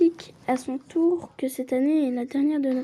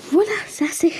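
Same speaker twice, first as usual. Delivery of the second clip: whisper; 3 semitones higher, faster than usual. Real, not acted. Player whispering an aside to herself. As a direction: whisper it to yourself.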